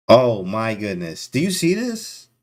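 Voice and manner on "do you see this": stunned disbelief. Real, not acted. Stunned at the move.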